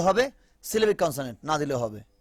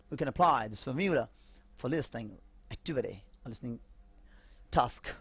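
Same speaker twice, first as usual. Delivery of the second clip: slow English restatement; 4 semitones lower, 6 dB quieter, much slower than usual. Shown as a demonstration. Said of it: "slow English repetition".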